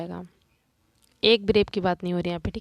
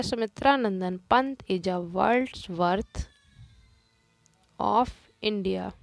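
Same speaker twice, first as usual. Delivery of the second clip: very slow, drawn-out reading; slow dictation; 3 dB quieter, much slower than usual. Shown as a demonstration. Teacher dictating an example to the class. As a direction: read it slowly for copying. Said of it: "teacher reads example slowly".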